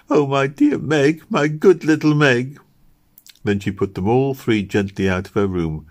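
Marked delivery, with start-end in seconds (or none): 0.1-2.6 crying out. A narrator's reading. Kitty clasping Meg to her breast, crying out. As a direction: draw it out with tender, acted feeling. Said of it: "and crying".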